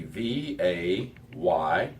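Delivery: slow letter by letter spelling; spelled out. Shown as a demonstration. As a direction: spell it out, one letter at a time. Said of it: "transliterating that to English".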